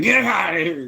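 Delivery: mock yell at cats. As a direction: bark it at the cats in a mock shout. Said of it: "He's like".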